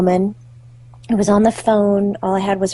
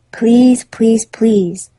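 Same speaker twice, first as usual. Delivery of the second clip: louder first plea, then easing; imitated begging; 4 dB louder, much slower than usual. Dog begging his mother, lightly acted pleading. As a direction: beg like a little dog to its owner, lightly acted. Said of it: "and then begged his mother".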